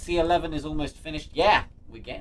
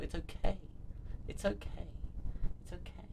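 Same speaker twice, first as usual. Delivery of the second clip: fading steadily to very soft; trailing down into near silence; gentle reassurance; 3 semitones higher, 11 dB quieter than usual. Real, not acted. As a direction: reassure softly, each repeat quieter. Reassuring an apologetic viewer, fading away.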